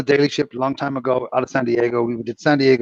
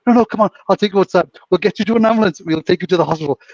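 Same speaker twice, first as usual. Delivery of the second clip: high, loud, hurried imitation; mock coaxing argument; 6 semitones higher, 3 dB louder, faster than usual. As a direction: act out urgently talking someone round. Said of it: "they were arguing on the floor".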